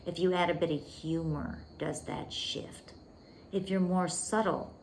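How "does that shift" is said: whispered question. Shown as a demonstration. Coach asking students if the energy shifts, whispered. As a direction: drop to a breathy whisper to make them wonder.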